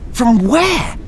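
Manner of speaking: high nasal pushing question; pressing for an answer; pushy. Acted. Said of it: "Althea pushed".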